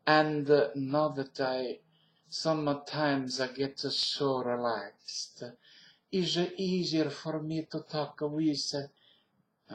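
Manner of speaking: relaxed, slow Italian accent. Shown as a demonstration. Speaker getting so relaxed, Italian accent. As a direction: lay it back in an Italian accent. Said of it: "Italian accent because".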